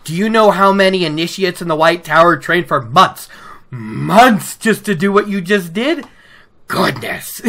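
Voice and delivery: mock exasperated gushing; lightly voiced mentor scolding her modesty. Mentor scolding the modest girl, mock exasperation. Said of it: "Moiraine's just like".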